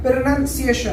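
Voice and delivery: प्रोनाउंसिएशन said as pir-nun-see-AY-shun; correct pronunciation. Shown as a demonstration. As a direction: model प्रोनाउंसिएशन clearly with "nun", not "noun". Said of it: "पहला ही word आप गलत पढ़ रहे हैं".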